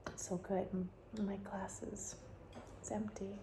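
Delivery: very soft, near-whispered murmur; hushed. Real, not acted. Wine taster lamenting an empty glass, hushed murmur. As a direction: confide it very quietly, trailing into a whisper.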